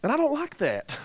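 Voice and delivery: a self-conscious laugh through the words. Real, not acted. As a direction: laugh at yourself as you admit it. Admits his own reluctance.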